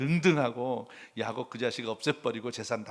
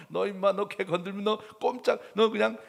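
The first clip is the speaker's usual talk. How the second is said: raised, quickly building threat; God defending me; 7 semitones higher, 5 dB louder than usual. Pretend. God threatening the tormentor, rapid stern threat. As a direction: fire it off fast, protective and fierce. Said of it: "밤중에 나타나서".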